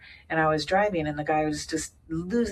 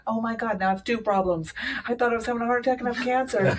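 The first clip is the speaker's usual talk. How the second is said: higher, faster, half-laughing disbelief; retold disbelief; 6 semitones higher, faster than usual. Telling friends about two diagnoses, half-laughing in disbelief. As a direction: rattle it off in mock panic. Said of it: "and now I'm like".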